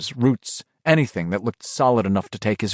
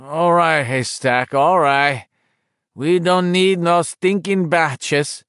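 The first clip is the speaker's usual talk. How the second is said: sleepy irritable; 6 semitones higher, slower than usual. A narrator's reading. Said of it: "in a sleepy, irritable, just coming out of it voice".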